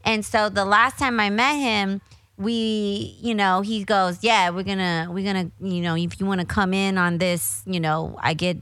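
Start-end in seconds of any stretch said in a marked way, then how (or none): 4.2-8.6 light imitation of a Detroit accent. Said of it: "I'm trying to talk in his Detroit accent".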